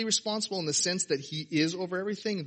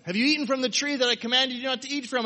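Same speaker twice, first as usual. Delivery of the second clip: a higher, louder voice of God confronting the man; God's stern question; 8 semitones higher, 5 dB louder than usual. Acted. God questions Adam after the fruit, raised and stern. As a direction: ask it like God catching Adam out.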